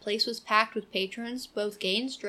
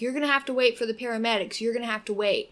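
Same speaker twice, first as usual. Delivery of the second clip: rude dispatcher; 4 dB louder, faster than usual. Retold or imitated. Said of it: "he was kinda rude about it".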